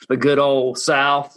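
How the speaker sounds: slow, hammed-up Alabama accent on "the good old South"; Southern drawl turned up. Host teasing his Australian guest, in a playful Southern drawl. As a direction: lay the Southern accent on thick, slowly. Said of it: "I like to turn my accent up".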